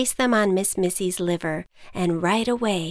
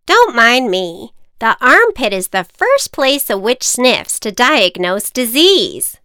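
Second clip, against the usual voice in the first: knowing witch, loud; 4 semitones higher, 9 dB louder than usual. Acted. Witch explaining sniff.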